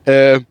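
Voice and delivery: loud burp after a fizzy drink. Real, not acted. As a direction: let out a short burp. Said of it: "ich muss aufstoßen".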